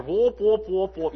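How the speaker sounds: muffled wah-wah teacher noise; Charlie Brown's teacher. Retold or imitated. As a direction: mimic the trombone teacher drone. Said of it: "like Charlie Brown's teacher".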